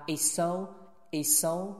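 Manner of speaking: "it's so" joined with a single s; merged S. Shown as a demonstration. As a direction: run "it's so" together on one s. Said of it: "is跟so是发it's". ("it's so"连读，只发一个s)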